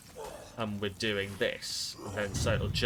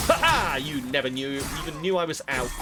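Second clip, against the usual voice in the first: gloating taunt; 2 semitones higher, 5 dB louder, faster than usual. Real, not acted. Taunting enemy in game.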